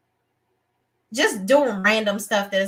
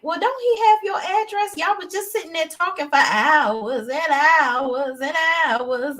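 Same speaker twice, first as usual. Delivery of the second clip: incredulous; 4 semitones higher than usual. Retold or imitated. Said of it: "I'm like".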